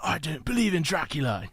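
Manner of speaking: lightly mocked British line; bad British accent. Mocking the actor's Dracula performance, bad British accent. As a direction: put on a poor British accent. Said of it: "Keanu Reeves doing a British accent".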